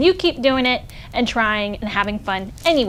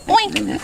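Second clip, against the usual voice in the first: pig oink; 8 semitones higher than usual. A narrator's reading. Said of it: "said Pig and Pig".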